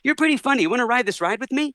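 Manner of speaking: high-pitched, quick impersonation; high imitation of a delighted star; a pop singer. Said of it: "a pop singer ... says".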